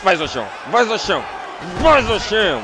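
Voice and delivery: building yell; shouting. Real, not acted. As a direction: cheer the knockdown on. Urging knockout.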